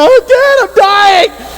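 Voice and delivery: high-pitched yell to dad for help; retold screaming. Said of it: "I'm, like, screaming".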